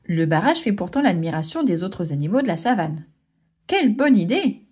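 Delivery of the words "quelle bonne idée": zebra exclaiming. Acted. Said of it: "s'exclame un zèbre".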